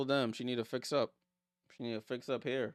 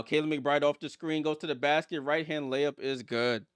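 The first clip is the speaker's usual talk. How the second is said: punchy basketball commentary; live play-by-play; 3 semitones higher, 5 dB louder than usual. Real, not acted. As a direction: call the drive through to the basket.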